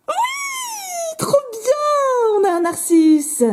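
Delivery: high, delighted cry of joy; excited squeal. Real, not acted. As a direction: burst out with real glee. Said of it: "Ça s'entend peut-être". (cri de joie aigu)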